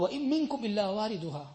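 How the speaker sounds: rapid chanted Arabic recitation; quick Arabic recitation. Acted. Quoting the hadith to the congregation, quick Arabic recitation. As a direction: rattle off the Arabic hadith text.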